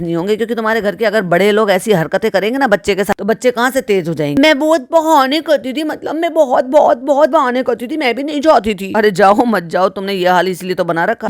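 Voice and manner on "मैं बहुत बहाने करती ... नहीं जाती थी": high-pitched mock-mother voice; mock confession in a raised pitch; mimicking a mother. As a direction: imitate her gushing about herself, pitched up. Imitating the mother's boast.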